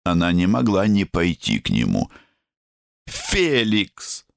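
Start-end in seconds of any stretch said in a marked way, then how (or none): 3.1-4.3 calling out. A narrator's reading. Mother calls son.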